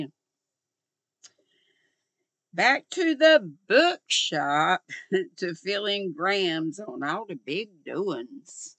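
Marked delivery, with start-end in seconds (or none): 2.5-8.8 folksy mom phrasing. Shown as a demonstration. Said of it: "sounds like something my mom would say".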